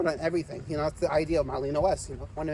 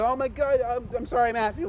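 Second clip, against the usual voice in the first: higher, louder mock-panicked apology; imitated scared apology; 5 semitones higher, 3 dB louder than usual. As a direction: act out someone startled and apologizing. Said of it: "He got scared".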